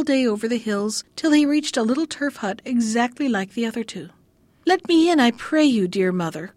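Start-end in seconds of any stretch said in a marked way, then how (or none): 4.7-6.5 lightly acted cry at the hut door. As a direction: call out to the old woman, begging. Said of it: "cried he".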